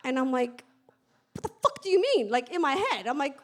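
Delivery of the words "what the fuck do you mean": high, loud incredulous outburst; retold shock, pitched up and punchy; freaking out inwardly. Speaker recalls her silent reaction to the VP, freaking out. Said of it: "I'm freaking out".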